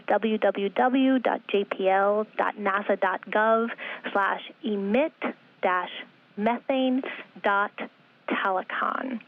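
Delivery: slow read-out in longer connected chunks; slow repeat. Real, not acted. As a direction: repeat the address slowly, linking the first parts together. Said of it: "I'll say it slowly".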